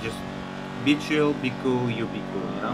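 put-on thick foreign accent, clipped broken grammar; broken English accent. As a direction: play a gruff foreign kidnapper with broken English. Broken-English criminal role throughout.

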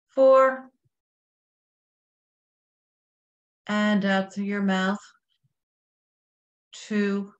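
slow, measured meditation guide with long pauses; guided breathing meditation. Real, not acted.

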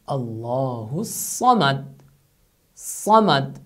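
"Samad" with a heavy emphatic s; Arabic recitation. Shown as a demonstration. Teacher quotes the Tawheed chapter, emphatic sad. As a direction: recite "Allahu Samad" with a dark s. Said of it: "you say".

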